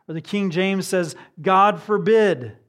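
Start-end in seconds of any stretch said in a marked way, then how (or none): 1.4-2.6 loud, slow, raised proclamation; emphatic refusal. Acted. Preacher quoting the King James, emphatic refusal. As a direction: thunder it out slowly from the pulpit.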